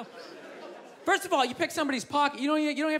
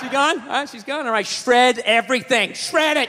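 conspiring surgeon; 5 dB louder than usual. Acted. Surgeon covering up.

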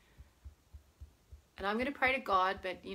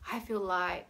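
wispy; 3 semitones lower than usual. Shown as a demonstration. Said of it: "Get into that wispy".

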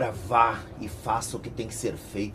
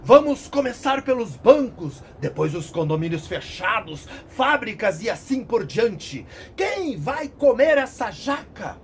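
higher, louder copy of Claudio; imitating Claudio's voice; 9 semitones higher, 8 dB louder than usual. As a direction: parrot the commander mockingly. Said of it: "Imitando a voz de Cláudio". (imitando a voz de Cláudio)

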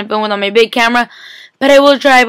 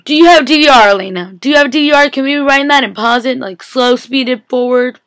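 excited pleading; 3 semitones higher than usual. Retold or imitated. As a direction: plead with Elena like a frantic fan. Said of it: "I'm like".

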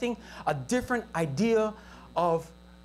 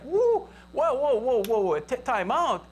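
mock indignant protest; 3 semitones higher than usual. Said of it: "They were angry, like".

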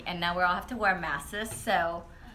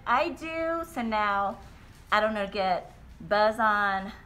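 muffled behind cloth mask; speaking masked, brief straw sip; through a face mask. Real, not acted. Seen 4: Cloth mask covers mouth throughout; straw raised briefly at 4.1.

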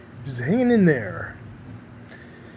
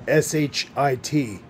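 spelled out slowly; 2 semitones lower than usual. Real, not acted. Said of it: "spelling it out".

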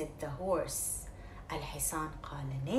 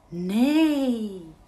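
goose neighing; 3 semitones higher, 9 dB louder than usual. Acted. Goose makes horse sound.

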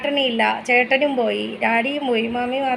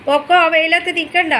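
higher, louder call across the yard; 4 semitones higher, 5 dB louder than usual. Real, not acted. Wife calling to husband at the gate to leave, calling out.

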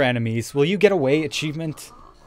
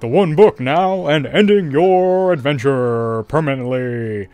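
Donald Duck voice; 6 dB louder than usual. Acted. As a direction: squawk it like a menacing cartoon duck. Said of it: "I can't do the Donald Duck voice".

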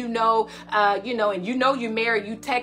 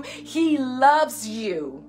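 slow, tender reassurance; much slower than usual. Acted. Preacher assuring a hurt woman she is loved. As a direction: let it land gently. Slowed repeated line.

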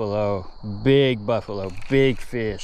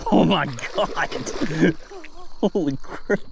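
high, laughing holy crap; laughing disbelief; 5 semitones higher than usual. Real, not acted. Angler laughing as the monster carp surfaces. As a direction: giggle in disbelief at the size.

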